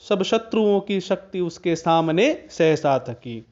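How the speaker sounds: measured verse reading, each line gliding downward; poem recitation. Shown as a demonstration. Teacher presenting a poem to students, measured verse recitation. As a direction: recite the couplets in an even metre.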